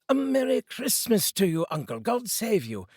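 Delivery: bright, high, loud festive greeting; cheerful cry. A narrator's reading. The nephew bursting in to greet his uncle, cheerful and loud. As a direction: call out merrily, up high. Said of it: "cried a cheerful voice".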